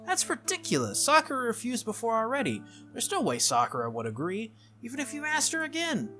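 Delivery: high-pitched disbelieving objection; indignant young hero, pitch leaping high; indignant protest. Acted. Plays an indignant character in the story.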